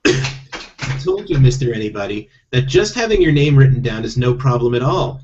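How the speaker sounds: lightly voiced talking toad; a hint of a legal-minded toad. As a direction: explain as a mildly put-on toad character. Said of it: "skipping from that character to Toad".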